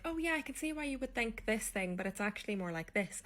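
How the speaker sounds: high, polite friendly correction, lightly acted. Irish barmaid to American customer, mock-friendly and high. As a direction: imitate yourself gently putting someone right. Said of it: "me thinking I'm being friendly".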